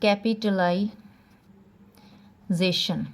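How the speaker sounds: कैपिटलाइजेशन said very slowly, every syllable drawn out; slow dictation. Shown as a demonstration. Teacher naming the exam topic, very slow. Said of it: "एक हो सकता है".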